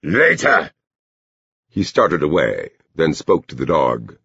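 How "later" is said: high, emphatic brush-off; calling out. A narrator's reading. Man refuses the girl while leaving, high call. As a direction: throw it back high, refusing to stop.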